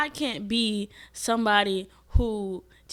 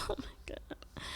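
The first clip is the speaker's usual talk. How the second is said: breathy whisper of shock; retold whisper of disbelief; whispered oh my God; 18 dB quieter than usual. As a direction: whisper it, stunned. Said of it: "I said".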